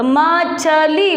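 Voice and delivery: मछली split slowly into म...छ...ली; syllable by syllable. Shown as a demonstration. Teacher showing pupils how it is pronounced, syllable by syllable. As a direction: sound out मछली one long syllable at a time. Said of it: "तो उच्चारण कैसे होगा इसका?".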